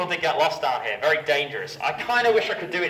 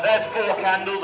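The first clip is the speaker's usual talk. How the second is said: Two Ronnies quote; 2 semitones higher than usual. Retold or imitated. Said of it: "if anybody knows the two Ronnies".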